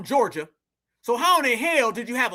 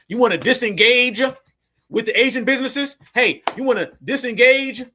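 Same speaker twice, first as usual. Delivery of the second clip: put-on pitch to a stranger, raised and emphatic; mock formal pitch; 2 semitones higher, 5 dB louder than usual. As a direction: call out like an overdone sales approach. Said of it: "not gonna talk to her like that".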